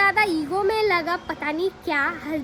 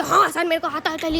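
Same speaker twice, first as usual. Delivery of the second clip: a slightly louder mock shouted answer; 5 dB louder than usual. Shown as a demonstration. Job interviewee demonstrating shouting to the owners, mock shout. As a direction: show how loudly she would have had to answer. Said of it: "इतना ज़ोर ज़ोर से चिल्ला के तो नहीं बोल सकती".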